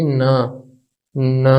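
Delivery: न as "nuh", level and unaccented; neutral tone demo. Shown as a demonstration. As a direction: model न with a schwa vowel. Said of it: "इसकी pronunciation होगी".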